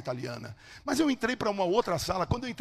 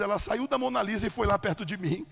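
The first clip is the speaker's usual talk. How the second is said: ordinary talk, nothing marked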